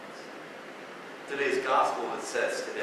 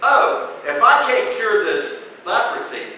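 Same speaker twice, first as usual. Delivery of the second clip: mock worried king; 6 semitones higher, 7 dB louder than usual. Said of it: "the king of Israel thinks".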